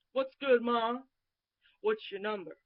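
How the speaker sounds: loud mock street pickup line. Woman mimicking a man's pickup line, loud mock. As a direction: imitate the guy hitting on her, loudly.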